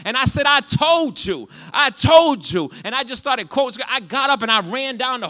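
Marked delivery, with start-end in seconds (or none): 0.4-2.7 high, loud victory cry; triumphant shout. Retold or imitated. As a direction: crow it over the nurse. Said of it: "you talk about a loud, wild Puerto Rican".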